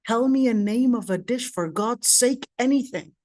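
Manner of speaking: retold exasperation, pitch lifting on the last word; exasperated plea. Wife begs husband to name any dish, exasperated plea. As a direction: plead with mild, mounting exasperation.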